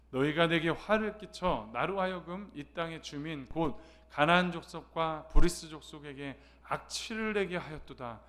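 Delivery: measured, solemn reading of the verse; scripture reading. Acted. Pastor reading the verse aloud with the congregation, measured and solemn. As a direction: read the Bible passage steadily for the church.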